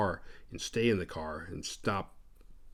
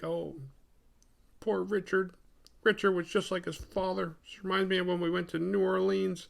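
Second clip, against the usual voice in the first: wistful mother; 9 semitones higher than usual. Retold or imitated. Laura remembering her dead son, mock wistful. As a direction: coo it sadly in a raised voice.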